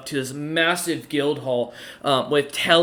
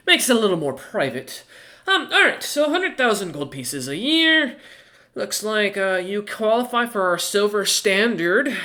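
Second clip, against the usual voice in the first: much higher clerk voice; banker in private; 5 semitones higher than usual. Acted. Banker offering James the silver standard, much higher. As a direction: announce the tier like a sales pitch. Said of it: "She looks at you and goes".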